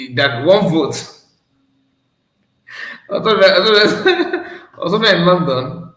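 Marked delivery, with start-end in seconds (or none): 3.1-5.9 laughing. Real, not acted. Laughing at the clip.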